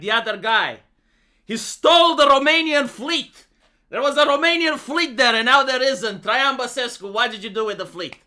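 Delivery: jab at the rival like a heckling candidate; mock Romanian politician. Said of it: "It's like".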